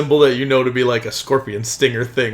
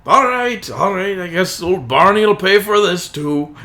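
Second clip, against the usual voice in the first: higher, louder grumbling concession; grudging driver; 6 semitones higher, 4 dB louder than usual. Acted. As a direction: give in loudly as the put-upon driver. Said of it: "he's like".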